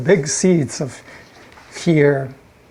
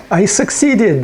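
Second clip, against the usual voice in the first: higher-pitched, lightly triumphant; pleased imp; 5 semitones higher, slower than usual. Acted. Imp boasting that it succeeded, mildly triumphant. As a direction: announce it with a touch of pride.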